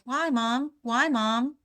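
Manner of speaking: a hint of a child's questioning; curious child. Son pestering mom with questions, mildly whiny curious child. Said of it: "My son was the biggest".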